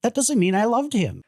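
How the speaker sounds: laughing denial. Real, not acted. Denying she loved Mike, laughing high. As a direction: deny it while cracking up.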